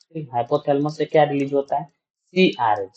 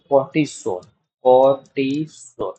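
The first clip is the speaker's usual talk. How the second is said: slow; slower than usual. Shown as a demonstration. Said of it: "क्या release कराता है वो?".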